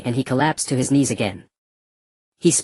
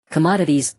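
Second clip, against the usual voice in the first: matter-of-fact; 2 semitones higher than usual. Acted. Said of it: "the black-robed man said matter-of-factly".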